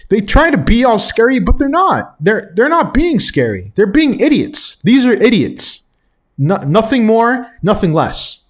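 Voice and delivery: heated, rising indignation, pitch climbing; real outrage building over the vandals; worked up. Real, not acted. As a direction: vent at the idiots, getting carried away. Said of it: "I'm getting too worked up".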